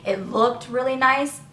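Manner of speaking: real slight crack, pitch lifting; a small accidental voice break. Real, not acted. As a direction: let the voice crack a little as it rises. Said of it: "My voice just cracked a little bit".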